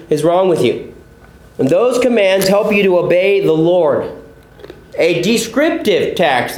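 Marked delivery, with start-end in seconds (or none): 5.0-6.6 slow "descriptive" with a clear DEE at the front; stressed prefix. Shown as a demonstration. Pastor contrasting two kinds of text, "descriptive" slowly with DE emphasized. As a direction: lean on the DE of "descriptive". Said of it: "that is D E".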